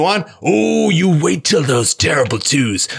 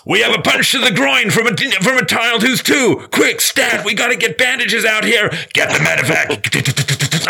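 mock war movie soldier; 7 semitones higher than usual. Dad parodying war movies, frantic mock soldier shout. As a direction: play a frantic combat medic yelling for help.

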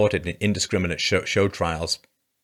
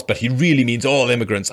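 mock echo; 3 semitones higher, 4 dB louder than usual. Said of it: "She said".

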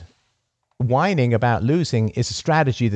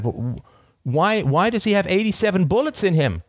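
stammering reporter; 8 semitones higher than usual. Retold or imitated. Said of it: "some reporter said".

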